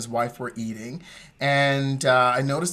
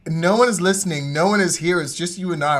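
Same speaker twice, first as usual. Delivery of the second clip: mock exasperation; 3 semitones higher, 6 dB louder than usual. Mock exasperation at partner's whispering.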